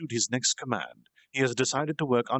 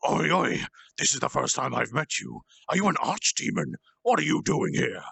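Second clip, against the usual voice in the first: put-on alarmed young devil; 4 semitones higher than usual. Young devil confronting an archdemon, mildly alarmed. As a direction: blurt it out on edge.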